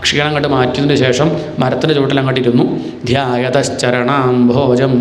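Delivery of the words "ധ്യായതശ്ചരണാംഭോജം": drawn-out Sanskrit recitation; slow verse recital. Acted. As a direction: recite each syllable slowly. Verse recited before explaining. (പതുക്കെ ചൊല്ലുന്ന ശ്ലോകം)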